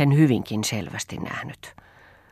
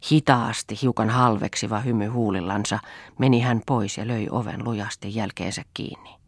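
usual speaking voice

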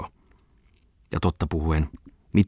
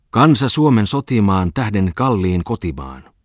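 loud, slow recital of patriotic verse; declaiming a poem; 3 semitones higher, 5 dB louder than usual. Acted. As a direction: proclaim it from the stage, slowly. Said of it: "alkoi tarmolla taas".

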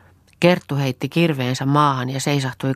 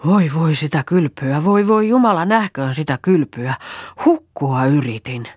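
shaken panting; 3 semitones higher, 4 dB louder than usual. A narrator's reading. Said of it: "hätäisesti puhallelle virkkoi".

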